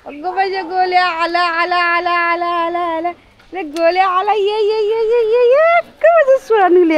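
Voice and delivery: high, delighted calls to a dog; excited greeting. Real, not acted. Woman greeting her dog Golya as he arrives, high and excited. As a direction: greet the dog as it comes running.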